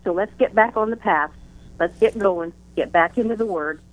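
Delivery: speaking a little out of breath; words pushed out on short breath. Real, not acted. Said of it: "I'm short of breath today".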